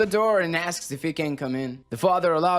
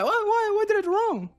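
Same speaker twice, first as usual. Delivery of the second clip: alarmed. Acted. Alarmed reply to summons.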